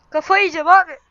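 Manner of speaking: exasperated outcry. Real, not acted. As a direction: blurt it out like you're losing your mind. Despairing over deleted account.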